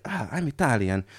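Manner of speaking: put-on comic Italian-accented English; stereotypical Italian accent. Italian driver stating his nationality, comic Italian accent. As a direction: announce it in mock Italian. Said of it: "the comically stereotypical accent".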